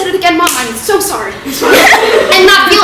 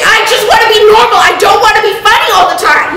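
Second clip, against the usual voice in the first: shouting outburst; 3 semitones higher than usual. Acted. Outburst argument.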